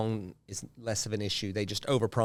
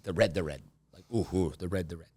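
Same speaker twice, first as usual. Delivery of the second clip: caveman grunt; 5 semitones lower, 3 dB quieter, faster than usual. Retold or imitated. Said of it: "it was more caveman-y".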